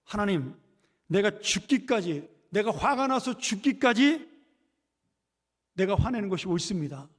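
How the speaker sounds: Jonah's mock yell at God; acted angry outburst. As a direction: act out an indignant retort, stretching the words. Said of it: "소리를 버럭 지른 거죠".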